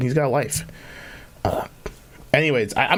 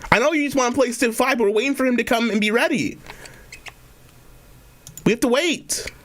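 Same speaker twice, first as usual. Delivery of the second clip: mock-patient higher voice; 8 semitones higher than usual. Talking to the TTS.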